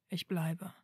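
quiet, calm confirmation; understated calm reassurance. A narrator's reading. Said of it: "bestätigte er ruhig".

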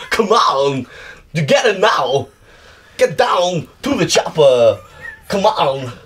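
mild mock Austrian action-hero accent; a hint of Schwarzenegger through Walken's rhythm; doing Walken doing Arnold, lightly accented. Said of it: "impression of Christopher Walken doing a bad impression of Arnold Schwarzenegger".

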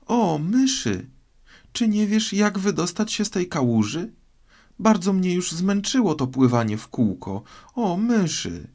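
put-on high, earnest girl's appeal; high-pitched plea to a mouse; Alice addressing the mouse. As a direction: call out politely in a high, girlish voice.

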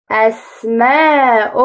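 أسماء read slowly, syllable by syllable; sounding out. Shown as a demonstration. Teacher blends the word slowly for the class. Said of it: "رددوا".

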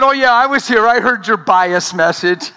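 playful jab, laughing; teasing. Retold or imitated. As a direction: rib your friend about his message. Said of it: "I said".

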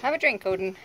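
loud friendly call. Real, not acted. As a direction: call it out across the way. Calling out to someone.

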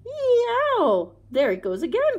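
high loud shrieking yelp. A narrator's reading. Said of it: "the jackal shrieked".

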